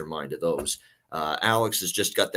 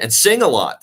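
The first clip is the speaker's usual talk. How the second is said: emphatic list topper; 5 semitones higher, 9 dB louder than usual. Real, not acted. Playful punch on list's last item.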